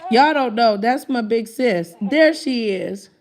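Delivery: laughing loudly while talking. Real, not acted. Laughing to the audience about fights with Mona, loud and giggly.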